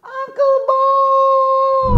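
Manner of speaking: very high, loud drawn-out yell. Shown as a demonstration. Host calling Uncle Bob again after the first call was too weak, loud yell. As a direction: shout so he can finally hear. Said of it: "Kurang kuat, dia nggak denger".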